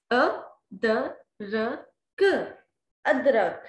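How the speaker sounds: अ द र क, then अदरक; sounding out letters. Shown as a demonstration. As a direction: blend the letters slowly into अदरक. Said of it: "same अलिफ मद्दा वाली". (अक्षर जोड़कर अदरक)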